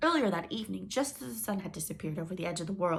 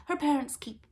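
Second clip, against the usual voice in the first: whispered gossip; queen whispering a snide aside; catty whisper; 9 semitones higher, 6 dB louder than usual. Acted. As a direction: lean in and whisper the insult.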